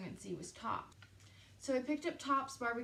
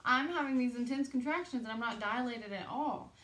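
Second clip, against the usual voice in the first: upset; 3 semitones higher, 5 dB louder than usual. Retold or imitated. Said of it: "really upset".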